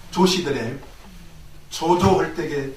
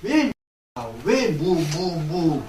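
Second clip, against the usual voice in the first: meditator questioning; much slower than usual. Shown as a demonstration. Monk showing students seated hwadu practice, questioning intently. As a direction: ponder the hwadu aloud, letting it fall. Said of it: "자리 틀고 앉아서 어때요?".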